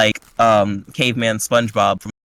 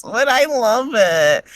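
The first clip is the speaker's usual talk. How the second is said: much higher, slow, gushing delight; 10 semitones higher, slower than usual. Retold or imitated. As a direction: swoon over the gift. Malik reacts to gift.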